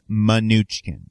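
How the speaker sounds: "Mnuchin" said slowly as muh-NOO-chin; correct name pronunciation. Shown as a demonstration. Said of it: "his name is pronounced".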